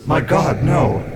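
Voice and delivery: "My God, no" as an emphatic outcry; extraordinary emphasis. A narrator's reading. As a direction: refuse in horror, hitting "no". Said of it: "with extraordinary emphasis".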